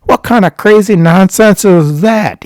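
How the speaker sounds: high, loud mock outrage; scolding. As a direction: imitate an indignant telling-off. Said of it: "he starts scolding me".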